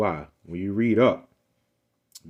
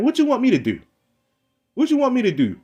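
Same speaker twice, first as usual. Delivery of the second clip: high, raised, demanding; exasperated challenge; 12 semitones higher, 4 dB louder than usual. Real, not acted. Challenging the man who asks what about them, exasperated. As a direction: throw the question back at him.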